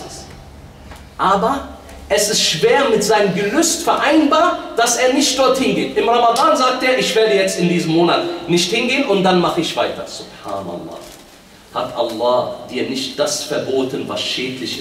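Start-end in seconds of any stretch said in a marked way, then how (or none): 1.2-10.0 high, insistent preaching; forceful preaching. Real, not acted. Preacher exposing the shisha smoker's excuse, forceful. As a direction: argue it with raised pitch.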